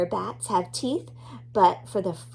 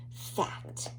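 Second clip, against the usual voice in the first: lower, softer secret whisper; 11 semitones lower, 10 dB quieter than usual. Acted. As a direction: tease the fact like a secret. Announcing fact section to child.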